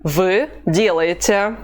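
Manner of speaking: slow, careful drill delivery; slow model phrase. Shown as a demonstration. Teacher answering learners slowly and clearly. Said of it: "What's the Russian for".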